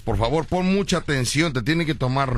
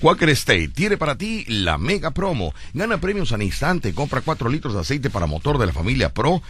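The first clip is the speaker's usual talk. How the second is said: radio ad read; 2 semitones lower than usual. Acted. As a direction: sell it like a sponsor spot on air. Host reads a live ad.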